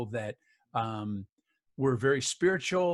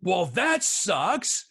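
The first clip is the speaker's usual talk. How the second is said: laughing; 6 semitones higher, 7 dB louder than usual. Real, not acted. Laughing at his grim diagnosis.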